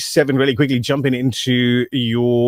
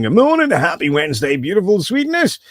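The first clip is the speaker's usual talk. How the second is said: high-pitched squeaky TikTok impression; imitating a squeaky little greeting voice; 7 semitones higher than usual. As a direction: put on a tiny, squeaky voice, pitched way up. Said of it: "that squeaky little voice".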